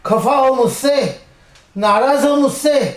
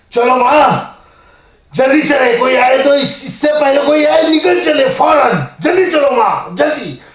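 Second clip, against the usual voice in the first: urgent hurry. Acted. Son urging mother to escape, urgent. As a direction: push her to flee now.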